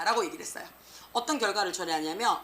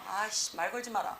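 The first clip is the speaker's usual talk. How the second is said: muttered irritation, a bit softer; mock fed up; 5 dB quieter than usual. Teacher acting out someone too mad to talk, mock annoyed. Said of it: "너무 빡치면".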